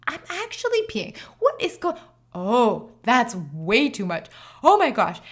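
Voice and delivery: suddenly realising something is wrong; startled panic. Retold or imitated. Waking to water breaking.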